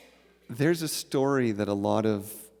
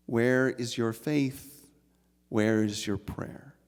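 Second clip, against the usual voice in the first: pointed challenge; 5 dB louder than usual. Acted. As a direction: press him on his faith. Wife challenges his faith.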